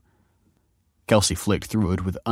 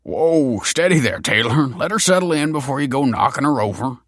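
raised, louder calming call; alarmed restraint; 7 semitones higher, 4 dB louder than usual. A narrator's reading. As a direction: rein in an overeager kid. Father reining in an eager teen.

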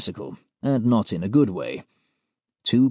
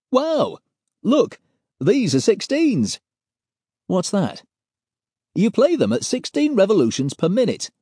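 high, loud, geeky excitement; excited Pete; 6 semitones higher, 3 dB louder than usual. Acted. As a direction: gush over the old records. Pete excited about records.

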